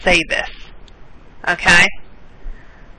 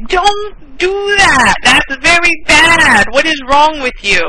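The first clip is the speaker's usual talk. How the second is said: higher, slow, half-shouted scolding; imitating a scolding; 6 semitones higher, slower than usual. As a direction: scold like a shocked friend. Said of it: "my Taiwanese friends yell at me".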